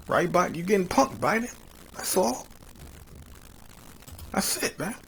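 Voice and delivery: high, teasing jeer; mocking taunt. Real, not acted. Host jeering at Biden for getting punked, high mocking taunt.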